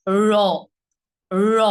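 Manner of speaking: "র" with the tongue curled up and flapped down firmly; pressed retroflex r. Shown as a demonstration. Teacher demonstrating the heavier r, pressed. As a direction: flap "র" down from the palate with pressure. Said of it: "একটু pressure দিয়ে".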